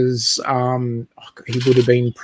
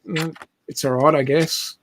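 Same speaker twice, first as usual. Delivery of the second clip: feigned indifference, softer and offhand; unimpressed shrug; 5 dB quieter than usual. Retold or imitated. Husband pretending the gift set is dull, offhand shrug. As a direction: play it down like you don't care. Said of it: "I said, I said".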